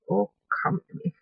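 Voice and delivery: pleading with a tiny gemstone, high and quick; coaxing squeak. Real, not acted. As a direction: sweet-talk the stone into place, high and fast. Coaxing a tiny gem onto place.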